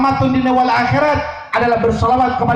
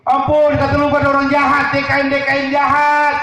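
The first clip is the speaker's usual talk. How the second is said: wailing grandma. Retold or imitated. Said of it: "Nangis jadinya".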